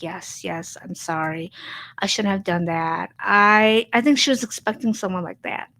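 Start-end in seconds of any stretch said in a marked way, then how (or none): 0.0-3.1 soft, low, timid imitation of a meek employee; mock-meek, bowing and sorry; meek apology. Imitating the meek old self she might have been, softly. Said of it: "bow, and be like".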